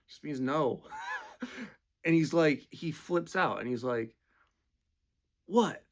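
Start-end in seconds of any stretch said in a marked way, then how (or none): 5.5-5.8 high, loud enraged screaming; furious scream. Retold or imitated. Homeless man screaming at the driver, high furious yell. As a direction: scream the accusation at him. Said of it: "He's just screaming at me".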